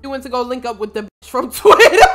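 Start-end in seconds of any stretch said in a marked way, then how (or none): 1.3-2.1 real laughter bursting through the words; cracking up. Real, not acted. Player joking about the Twitter woman, cracking up. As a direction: lose it laughing on the last word. Breaks up at own joke.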